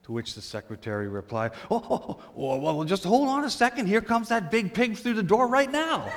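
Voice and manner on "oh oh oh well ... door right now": suddenly eager to please, with a laugh; fawning excitement. Retold or imitated. Secretary fawning over the donor, high and gushing. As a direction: voice jumps high, gushing and fast.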